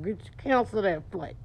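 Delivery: tight jaw. Shown as a demonstration. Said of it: "Tight lip, tight jaw".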